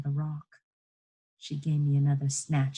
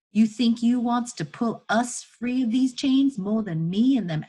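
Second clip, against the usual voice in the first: raised-voice Southern woman, indignant; challenging enslaved woman; 5 semitones higher, 6 dB louder than usual. Acted. Chained woman challenging boy tugging at chains, indignant. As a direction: reproach the child, building in force and pitch.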